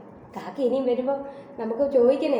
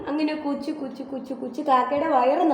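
crow sipping sounds. Shown as a demonstration. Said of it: "എങ്ങനെ കാക്ക വെള്ളം കുറ്റുന്നേ?".

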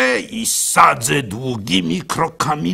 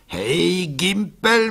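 friendly apprentice greeting; 6 semitones higher, much slower than usual. Acted. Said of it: "mówił".

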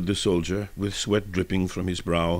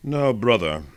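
earnest; 3 semitones higher than usual. A narrator's reading. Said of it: "answered the soldier earnestly".

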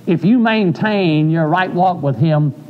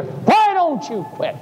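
devil's voice; 5 semitones higher than usual. Retold or imitated. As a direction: lure him to quit. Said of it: "the devil whispering in my ear".

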